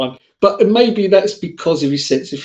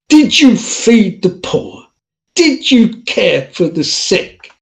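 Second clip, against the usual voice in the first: Saint Peter; 5 semitones higher, slower than usual. Retold or imitated. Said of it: "Saint Peter says to you".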